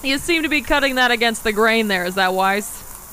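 put-on Boston accent. Co-host questions cutting against the grain, Boston accent. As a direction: lay the Boston accent back on. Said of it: "You're getting it back. I like it".

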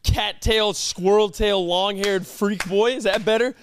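a hint of a smug schoolyard bully; mock bully taunt. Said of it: "He was like".

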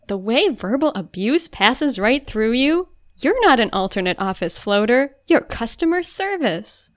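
slow, grand announcement; mock revelation. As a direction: reveal it like a big discovery. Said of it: "He's just like".

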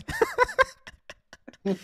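high burst of laughter; loud laugh. Real, not acted. Friends joking about a remark.

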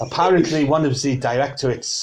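put-on French-accented gossip that starts to slip; French accent drifting towards Celtic; wandering French accent. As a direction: relay news in an unsteady mock-French accent. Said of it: "slowly getting more Celtic as it goes along".

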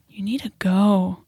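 slow whispered dismissal; hushed stern send-off; quiet firm. Retold or imitated. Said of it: "I literally looked at him".

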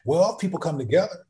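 lightly acted patient questioner; staying calm. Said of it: "I'll stay calm and I go".

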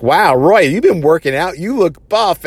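high, impressed mock compliment; impressed teasing. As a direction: play the starstruck flirty admirer. Kara admiring Roy's new look.

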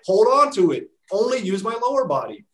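sarcastic how-to in a client's voice; mock client voice. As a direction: act out a clueless gym-goer's logic. Mocking a lazy treadmill user.

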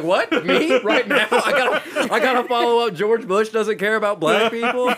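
high, loud deer-in-headlights panic, laughing through it; mock-stunned, voice jumping up; panicked disbelief. Comic retelling Chris Tucker's on-camera reaction, high incredulous panic. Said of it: "like a deer caught in headlights".

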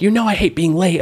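high, whiny parody voice; husband parodying wife's impatience, high-pitched; mock nagging wife. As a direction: whine it up high like a cartoon nag. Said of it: "And then you're like".

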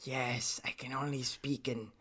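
subtle, hushed hint of a German accent; slightly German accent. Co-host explaining his voice, slight German accent. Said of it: "subtle whispers with a, maybe a potentially slightly German accent".

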